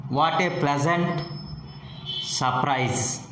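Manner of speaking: "pleasant" held up, "surprise" falling. Shown as a demonstration. Teacher modelling an exclamation for learners, falling tone. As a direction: drop the pitch at the end of "surprise". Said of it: "The falling tone is also used with".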